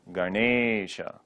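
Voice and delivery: Ganesha with the middle e stretched, "ga-neee-sha"; long e in Ganesha. Shown as a demonstration. Teacher showing when you say the word, long-e Ganesha. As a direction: draw out the e of Ganesha slowly. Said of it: "will always be long".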